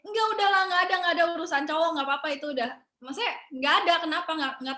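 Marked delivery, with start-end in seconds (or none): 0.0-2.7 brushing it off. Retold or imitated. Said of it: "aku yang kayak".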